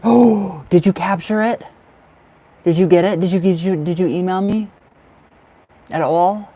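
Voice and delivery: gasp, then fire off eager questions; a burst of delighted disbelief; excited gasp. Real, not acted. Excited that the viewer captured it.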